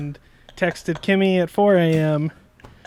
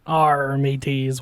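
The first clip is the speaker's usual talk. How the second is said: pirate voice; 3 semitones lower, slower than usual. Acted. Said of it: "my pirate voice".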